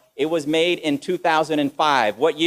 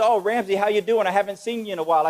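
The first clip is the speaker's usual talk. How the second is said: woman's voice; 6 semitones higher than usual. Retold or imitated. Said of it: "and she says".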